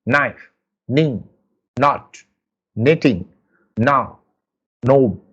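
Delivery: each word of "Knife. Knee. Not. Knitting." begun on n, no k; isolated demo words, "Knife", "Knee", with the k dropped; silent K. Shown as a demonstration. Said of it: "You can see that K is silent".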